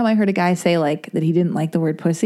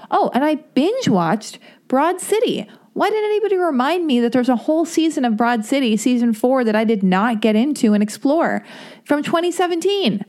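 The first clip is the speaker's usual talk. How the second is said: excited; 6 semitones higher than usual. Real, not acted. Excited Broad City gush.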